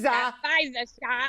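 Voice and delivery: playful mock Long Island accent; imitating Long Island accent. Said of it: "my Long Island accent".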